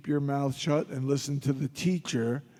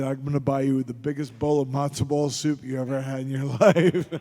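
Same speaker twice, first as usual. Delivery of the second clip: laughing. Retold or imitated. Laughing while promising soup.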